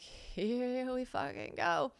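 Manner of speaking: slow, drawn-out grim resignation; resigned dread. Retold or imitated. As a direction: brace yourself, dragging each word. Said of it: "I'm like".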